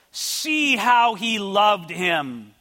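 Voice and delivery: loud, drawn-out onlookers' exclamation; emphatic quotation. Acted. Preacher quoting onlookers who saw Jesus weeping, slow and emphatic. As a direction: stretch each word out with force.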